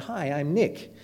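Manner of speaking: lightly imitated American accent; a brief, soft American-accented greeting. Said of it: "he said in his American accent".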